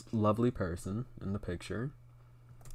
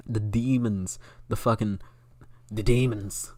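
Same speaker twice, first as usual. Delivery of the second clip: a louder, half-formed ranting impersonation; attempted Alex Jones; 5 dB louder than usual. Streamer trying a commentator impression on the demons, half-baked rant. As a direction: push the words out louder, an unconvincing impression. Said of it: "I can't do an Alex Jones".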